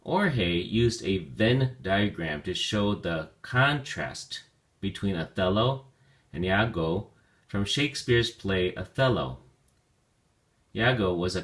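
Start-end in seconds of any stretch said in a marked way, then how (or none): 0.0-9.4 slow, careful read-aloud. Shown as a demonstration. Teacher reading the example sentence slowly aloud. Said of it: "Let's take a look at your sentence example".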